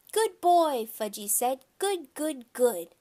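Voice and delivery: put-on high, loud little-kid chant; toddler voice. A narrator's reading. Little boy repeating his mother, high toddler chant. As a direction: parrot it back like a toddler.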